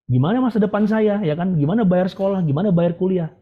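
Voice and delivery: a touch of mock anxiety; retold worry. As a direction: imitate fretting over the future. Voicing own past worry about future.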